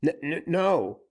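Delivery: high, stuttering denial; stammering fear. A narrator's reading. Frightened banker denying to Dick, stammering. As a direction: stumble over the no in fright.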